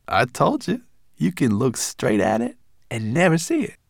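high, brisk little creature voice; a furry guide, pleased with himself; Berber Chan's voice. Acted. Small guide explaining the hidden door, high and brisk.

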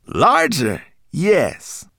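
high, loud, proud creature voice; Berber Chan's voice. Acted. Guide showing off the moonstone walls, high and proud. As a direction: boast about the tunnel walls.

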